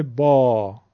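با as a long, open back 'baa'; vertical open alef. Shown as a demonstration. Teacher showing vertical mouth opening, long back 'aa' in با. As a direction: drop the jaw and hold the 'aa' of با.

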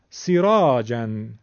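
سیراجن as 'si-raa-jan', brief 'si', long 'raa'; short kasra. Shown as a demonstration. Teacher giving kasra example, short 'si' in سیراجن. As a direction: keep the first vowel of سیراجن short. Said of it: "سین کسره داره".

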